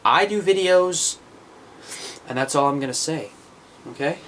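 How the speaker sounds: a light put-on American accent. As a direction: sign off in a casual American accent. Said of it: "I'm talking in an American accent".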